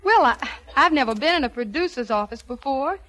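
put-on Southern ingenue accent; phony Southern accent. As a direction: play innocent with a Southern accent. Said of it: "Pardon me if I dropped my southern accent".

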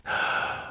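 soft breathy sigh of remembered bliss; a quiet, soft exhale of pleasure; dreamy sigh. Acted. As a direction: sigh it out, lost in the memory. Remembering ecstasy with a vampire.

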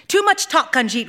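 a high call to cut her off; mild yell. Acted. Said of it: "Rahel yelled".

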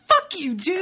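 high, loud exasperated outburst; irritated. Retold or imitated. Viewer retorting to the dismissive character, irritated. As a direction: hurl it back at him, retold with irritation. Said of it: "I just got so irritated".

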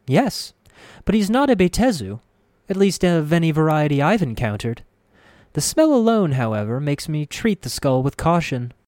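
high, prim healer voice; elderly woman voice. A narrator's reading. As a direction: voice the fussy old healer. Grace's voice.

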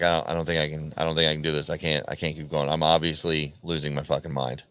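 low, subdued voice of giving up; retold despair. Dream double admitting he can't go on, mildly despairing.

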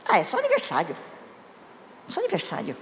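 low, offhand mock shrug-off; dismissive. Imitating a husband who forgot her birthday, dismissive.

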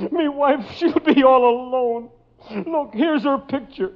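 pleading gangster. Acted. Gangster pleads about his wife.

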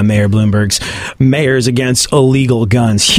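normal talking voice

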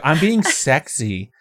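slow, drawn-out mock seductive; mock sexy. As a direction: stretch it out like a put-on seduction. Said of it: "She's like".

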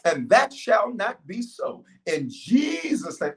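steady preacher's prayer. Acted. Continues prayer.

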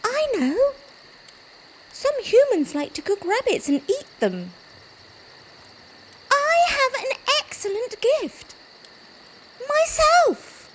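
high rabbit voice, rising with resolve; a small rabbit finding courage; eager little rabbit. Acted. Rabbit's brave decision.

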